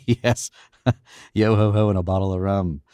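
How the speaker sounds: laughing while half-chanting yo ho ho; laughing singsong. Acted. Hostess laughing as she quotes the pirate song. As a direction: chuckle through the pirate line.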